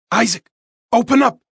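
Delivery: loud, high urgent call; booming. Acted. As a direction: boom it through the door. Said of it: "Dimitri's muffled voice boomed".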